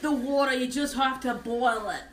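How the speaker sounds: mock Australian survival advice; Australian accent. Advising friend on drinking seawater, mock Australian accent. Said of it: "I sound like a Californian Australian".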